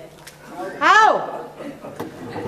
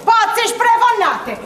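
scolding; 3 semitones higher than usual. Acted. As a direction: give him a proper telling-off. Mother scolding the man. (rimprovero acuto, finale lento)

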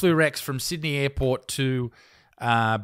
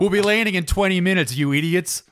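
hammed-up captain threatening passengers; mock pilot taunting passengers on the intercom; rude pilot announcement; 3 semitones higher than usual.

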